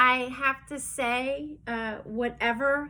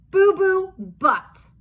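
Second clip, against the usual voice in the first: louder, slow, higher Boo Boo Butt; silly name; 6 semitones higher, 7 dB louder, slower than usual. Acted. Reading to giggling kids, a slow loud Boo Boo Butt. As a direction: stretch the silly name out for laughs. Reads funny name aloud.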